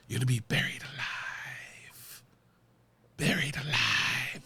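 slow hushed whisper imitating Khan. Khan whispering his threat to Kirk, slow and hushed. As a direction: breathe it out slowly, menacing. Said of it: "And he just whispers that".

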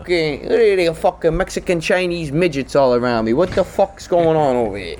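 lightly hammed-up North Jersey grumble; New Jersey accent. Coma patient among strangers, baffled New Jersey accent. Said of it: "like, a northern New Jersey accent".

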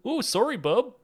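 high, mock-Canadian apology; hammed-up polite Canadian; Canadian accent. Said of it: "be really Canadian".

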